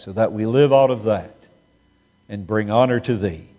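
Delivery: reverent prayer voice, measured and earnest; humble pastoral prayer to God; closing prayer. Acted. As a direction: pray over the congregation with reverence.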